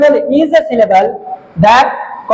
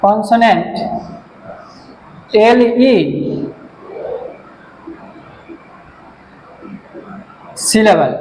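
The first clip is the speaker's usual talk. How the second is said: isolated words with long gaps; word-by-word dictation; 4 dB quieter, much slower than usual. Real, not acted. Teacher writing out the next question, word-by-word dictation. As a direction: say each word as you write it.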